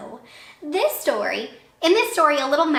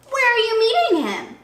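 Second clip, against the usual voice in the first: nervous fox; 12 semitones higher, 5 dB louder than usual. Acted.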